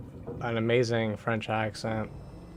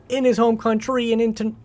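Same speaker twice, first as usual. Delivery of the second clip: loud, hammed-up French accent, higher and louder, with oui tics; mock French accent; 9 semitones higher, 6 dB louder than usual. Streamer reads game note for chat in a silly French accent. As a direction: read it like a cartoon Frenchman, oui oui. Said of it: "wrap with a French accent".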